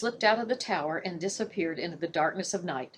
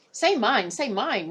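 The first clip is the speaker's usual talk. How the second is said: insisting; 4 semitones higher, slower than usual. Acted. Warder insists the raven say his name. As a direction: press the bird for your own name. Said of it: "Warder Marsh insisted".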